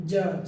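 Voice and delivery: জাজ said firmly with no separate d sound; silent d. Shown as a demonstration. Teacher showing d drops before g, জাজ with silent d. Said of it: "ডি এর উচ্চারণটা হবে না".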